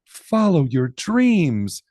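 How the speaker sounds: slow, tender and encouraging; mother's encouragement. Acted. Mother gently encouraging her daughter, slow and tender. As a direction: gently urge her to follow her dreams. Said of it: "said Poppy's mother".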